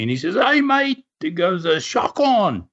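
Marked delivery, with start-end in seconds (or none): 0.3-1.0 high-pitched mock yell in Aussie accent; imitated Aussie scream. Aussie surfer warning a swimmer over the waves, mock yell. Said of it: "he screams at me". 1.6-2.7 drawn-out mock yell, Aussie accent; imitated Aussie scream. Aussie surfer warning a swimmer over the waves, mock yell. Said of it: "he screams at me".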